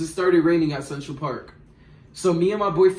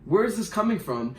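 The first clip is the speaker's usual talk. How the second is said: higher, puzzled mock voice; confused Tommy; 4 semitones higher than usual. Tommy answers the accusation, higher, mock-confused. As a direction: play the confused guy, pitched up. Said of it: "He was like".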